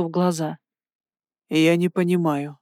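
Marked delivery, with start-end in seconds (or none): 1.5-2.6 flat mechanical monotone; robot voice. A narrator's reading. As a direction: say it evenly like a machine. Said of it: "Ровным, словно механическим голосом".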